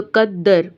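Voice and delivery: कद्दर with doubled d, ending on r; no vowel after the r in कद्दर; stopped ending. Shown as a demonstration. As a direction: hold the दd and stop कद्दर on r. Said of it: "ऊपर ज़बर नहीं पढ़नी".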